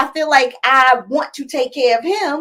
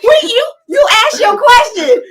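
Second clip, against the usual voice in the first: laughing protest; 13 semitones higher, 7 dB louder than usual. Real, not acted.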